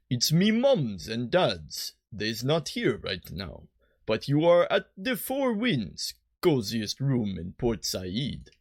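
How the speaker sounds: slow, lightly voiced little girl; a hint of a young girl minding the inn; girl innkeeper voice. Voicing girl innkeeper Nyala.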